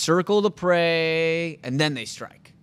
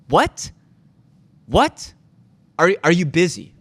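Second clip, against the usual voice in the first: mock yell; 6 dB louder than usual. Mock-yelling back at agent.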